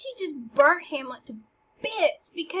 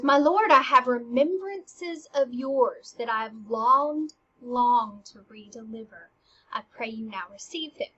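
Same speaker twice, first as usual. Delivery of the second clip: Ophelia returning gifts. Acted. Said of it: "she goes".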